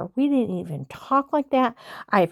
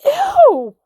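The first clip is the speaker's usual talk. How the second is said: disgusted ew; 9 dB louder than usual. Real, not acted. Disgusted at a weird claim.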